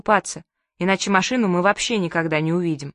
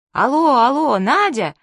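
loud, higher call through static; calling over bad line; 5 semitones higher, 4 dB louder than usual. Father calling his wife through a crackling line, loud. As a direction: raise your voice over the crackle. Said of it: "сквозь шорох и треск прорвался голос папы".

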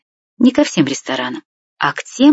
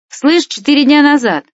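high, excited call, only mildly louder; shouting into phone; 10 semitones higher, 3 dB louder than usual. A narrator's reading. Stas relays the news to Vlad by phone, calling out high. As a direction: relay it down the line, pitched right up. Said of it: "продолжал кричать в трубку".

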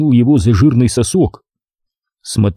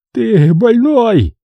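choking on snot; 11 semitones higher, much slower than usual. A narrator's reading. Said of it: "захлебнулся соплями смотритель".

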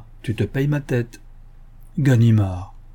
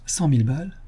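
incredulous question; 3 semitones higher than usual. Acted. Ganimard echoes the sum to Lupin, mild disbelief. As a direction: echo it in disbelief. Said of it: "fit-il".

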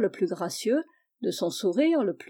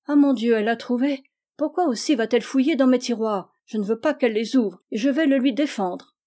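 put-on indignant child; 2 semitones higher, 4 dB louder, faster than usual. Gisèle caught, indignant.

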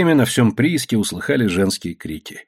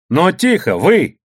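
higher, short sharp order; mildly raised voice to hush them; scolding yell; 7 semitones higher, 4 dB louder, slower than usual. A narrator's reading. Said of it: "прикрикнула Анфиска".

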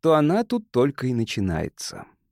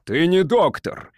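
higher, drawn-out accusing cry; angry cry; 6 semitones higher, 3 dB louder, slower than usual. A narrator's reading. Gilman accusing the doctor, crying out. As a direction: cry out slowly in protest. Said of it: "кричал Гилмен".

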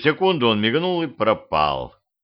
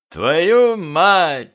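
high, loud startled curse; shocked curse; 8 semitones higher, 5 dB louder than usual. A narrator's reading. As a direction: bellow it out in shock. Voice cursing from the crypt.

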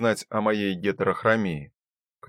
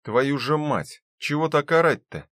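annoyed outburst; 5 semitones higher, 3 dB louder than usual. Acted. Jolted awake, yelled at.

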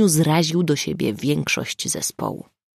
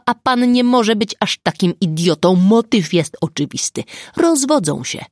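much higher, louder furious tirade; shouted; 3 semitones higher, 4 dB louder than usual. Acted. Prosecutor shouting his theory at the sergeant, furious yell. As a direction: yell the motive at him, red in the face. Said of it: "wykrzyczał Dunin".

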